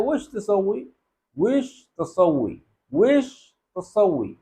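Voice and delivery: وش تسوی said slowly, each syllable clear; slow clear demo. Shown as a demonstration. Teacher models the correct وش تسوی slowly for students. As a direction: spell out وش تسوی slowly for learners. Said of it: "آپ نے کہنا ہے".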